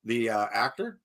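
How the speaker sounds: slight real crack in the voice. Real, not acted. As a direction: voice cracks on the question. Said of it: "Why did my voice crack".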